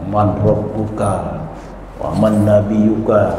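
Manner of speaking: low, slow and weighty; solemn angel question. Retold or imitated. Angel questions the dead in the grave, low and slow.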